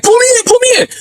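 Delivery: very high frantic begging; panicked plea. Retold or imitated. Friend hanging out the car window begging his friends, panicked plea. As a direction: beg to be pulled back in, panicking.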